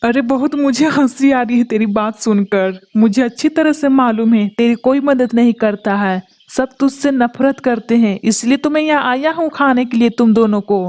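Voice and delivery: a greedy kite relishing its meal; menacing, savoring every word; gloating predator. Acted. The kite gloats over the two trapped birds, menacing.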